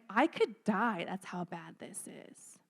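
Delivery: softly whispered despair; hushed anguished whisper. Retold or imitated. Teacher voicing Jesus' anguish, fading to a whisper. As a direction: breathe it out like it hurts.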